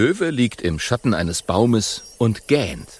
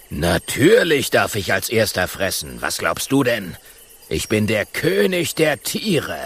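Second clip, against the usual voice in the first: lightly voiced lordly lion; self-important lion; 2 semitones lower than usual. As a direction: speak as the proud lion king. Lion character speaks.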